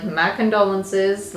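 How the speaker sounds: slow, mock sympathy; sarcastic. Mimicking the card's message to someone in the way, sarcastic. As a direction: draw out the false condolences with sarcasm. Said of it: "I feel sarcasm with this".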